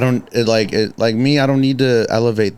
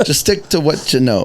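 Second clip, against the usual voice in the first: laughing; 4 semitones higher than usual. Real, not acted. Laughing while giving advice.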